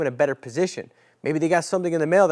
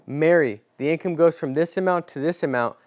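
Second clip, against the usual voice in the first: sincere agent question; 3 dB louder than usual. Shown as a demonstration.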